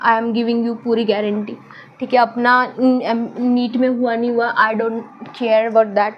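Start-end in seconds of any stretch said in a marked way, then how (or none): 4.5-6.1 I don't care about that, drawn out slowly word by word; slow emphatic denial. Shown as a demonstration. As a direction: spell out each word slowly, with weight on about. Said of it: "I care a lot about that".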